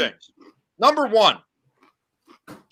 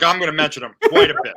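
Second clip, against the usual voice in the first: laughing; 2 semitones lower, faster than usual. Real, not acted. Repeats own line, then distorted.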